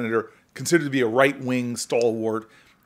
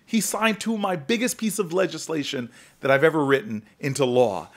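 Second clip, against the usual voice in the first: excited exclamation; 3 semitones higher than usual. Retold or imitated. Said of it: "I looked at her and go".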